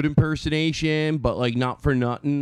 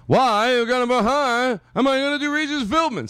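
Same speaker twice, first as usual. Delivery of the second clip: much higher, squeaky voice; 10 semitones higher than usual. Real, not acted. Host warming up an impression, squeaky and high. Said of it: "I'm squeaky".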